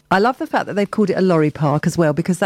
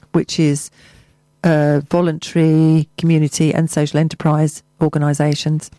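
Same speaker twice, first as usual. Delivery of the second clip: measured local radio announcement; community bulletin delivery; event listing read. Acted. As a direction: read the notice out evenly, with pauses between items.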